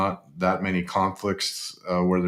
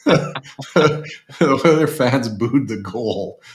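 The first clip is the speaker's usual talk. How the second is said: high, slow words through real laughter; laughing; 7 semitones higher, 4 dB louder, much slower than usual. Real, not acted. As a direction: crack up while repeating the punchline. Cracking up over booed goal.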